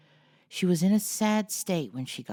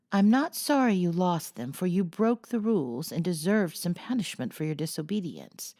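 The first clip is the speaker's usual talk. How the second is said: mildly stern mother, a bit higher and louder; a touch of severity, scolding gently; severe reply; 4 semitones higher, 4 dB louder than usual. Acted. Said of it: "was the severe reply".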